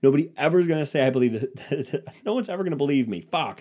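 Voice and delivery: fast, exasperated retold rant, pitch climbing; mock angry. Man ranting that nobody will believe his story, mock angry. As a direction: rattle off a worked-up complaint in comic frustration. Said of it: "I'm just, like, angry".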